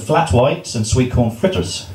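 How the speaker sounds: badly attempted New Zealand accent, drawn out; poor Kiwi accent. Groom teasing guests with New Zealand treats, poor Kiwi accent. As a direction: slowly try a hint of a Kiwi accent. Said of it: "poor accent".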